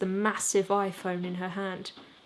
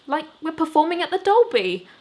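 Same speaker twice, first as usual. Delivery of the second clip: higher, louder, beaming; grinning; 7 semitones higher, 8 dB louder than usual. Acted. Jimmy to bandmates before the show, beaming and loud. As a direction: let the grin into the words. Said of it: "find myself grinning again".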